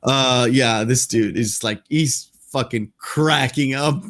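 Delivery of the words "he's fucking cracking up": laughing. Real, not acted. Describing actor laughing.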